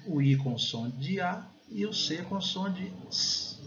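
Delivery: slow, drawn-out "O I com som de A e o C com som de S"; letter sounds spelled out. Shown as a demonstration. Teacher explains the letters of ice, slow pronunciation demo. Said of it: "Pronúncia muito clássica".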